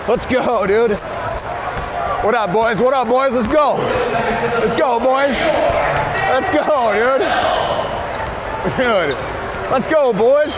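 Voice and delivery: frat bro. Acted. Hyping up the team.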